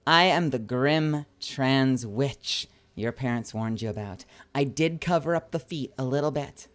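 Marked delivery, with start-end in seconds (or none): 0.1-4.2 slow dictation. Real, not acted. Writing the line out while saying it.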